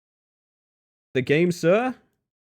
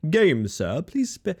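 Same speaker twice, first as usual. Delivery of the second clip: lightly posh; 4 semitones higher, slower than usual. Pretend. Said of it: "Read that controller brand in a little posh voice".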